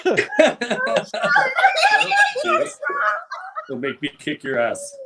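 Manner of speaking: Butt-head voice. Acted. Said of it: "I got one".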